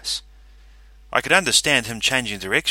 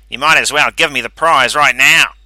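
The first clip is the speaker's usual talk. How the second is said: smug character voice; 4 semitones higher, 13 dB louder than usual. Acted. Calverley boasting.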